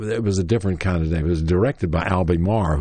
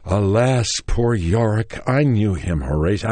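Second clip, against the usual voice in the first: louder, continuous theatrical recitation; concentrated declaiming; 3 semitones higher, 3 dB louder than usual. Retold or imitated. Actor with book as skull at his audition, concentrated declaiming. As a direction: push through the line with more force, lightly acted. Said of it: "I got concentrated with my book".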